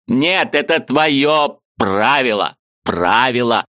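high, eager voice of a Ukrainian friend; lively high-pitched friend arguing; Mikhalevich's voice. A narrator's reading. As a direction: play the excitable friend up high. Mikhalevich interrupting.

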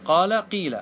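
قال, then قيل with a long "ee"; kasra variant. Shown as a demonstration. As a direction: say قال قيل as "qaala, qeela". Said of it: "قال ثلاث لغات".

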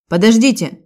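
calls out loud to stop them; sharp call to wait; police officer calling after them to halt, loud call; policeman's shout. A narrator's reading. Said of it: "крикнул полицейский".

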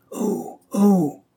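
high-pitched cry of alarm; exclamation d'alarme. A narrator's reading. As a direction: call out "oh" high, as if sighting danger. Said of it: "s'écria". (cri d'alarme aigu)

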